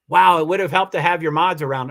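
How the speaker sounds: a pointed dig dressed up as a comment; imitating a passive-aggressive reply. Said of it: "that might be passive aggressive".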